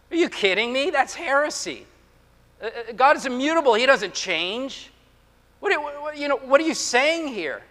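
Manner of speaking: mock disbelief. Preacher playing a shocked listener, mock disbelief. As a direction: react as if scandalized.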